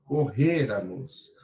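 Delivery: "correramos" slow, weight on "re"; stressed syllable shown. Shown as a demonstration. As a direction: stretch "correramos" to show its accent. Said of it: "olha o acento".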